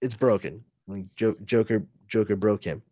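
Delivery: a hint of low brooding Batman; lightly voiced Batman. Batman voiced scolding Alfred.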